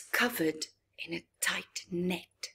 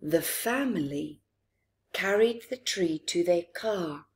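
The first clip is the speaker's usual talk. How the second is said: put-on reading to children. A narrator's reading. Reads picture book to children.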